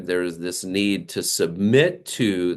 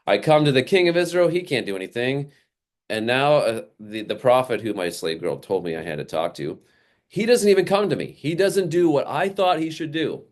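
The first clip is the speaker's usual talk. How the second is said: high, fast indignant complaint; the snubbed general fuming; offended pride; 5 semitones higher than usual. Retold or imitated. Naaman fuming that the prophet would not come to him, high and fast. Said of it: "he's thinking".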